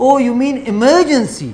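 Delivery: high, loud, slow American drawl with a laugh; mock the American's slow realisation; American accent. American finally understands the word, in a hammed-up accent. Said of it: "میں کہتا".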